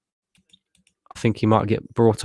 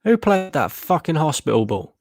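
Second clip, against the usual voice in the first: raised, much higher, furious disbelief; angry outburst; 9 semitones higher than usual. Real, not acted. Streamer watching the match, raging at a loose pass. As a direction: demand to know who made that pass.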